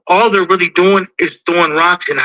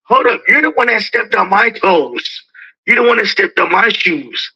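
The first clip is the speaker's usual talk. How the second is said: acted protest, pitched up at first; indignant comeback; 4 semitones higher than usual. Stepped-on person answering the one who stepped, acted indignation. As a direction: set the record straight, mildly indignant.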